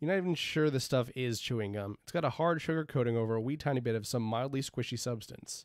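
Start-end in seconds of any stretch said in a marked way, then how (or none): none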